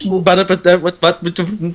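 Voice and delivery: lightly put-on prim English stereotype; fussy stammering, a touch prissy; prim and proper. Mocking English characters on American TV, prim and proper. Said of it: "so prim and proper".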